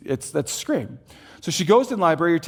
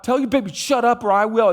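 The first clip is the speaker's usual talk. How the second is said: mock rude man; 7 semitones higher, 4 dB louder than usual. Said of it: "like, out loud".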